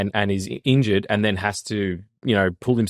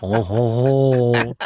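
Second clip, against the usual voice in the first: laughing oh; 4 semitones higher, 5 dB louder, much slower than usual. Real, not acted. Laughing after French bit.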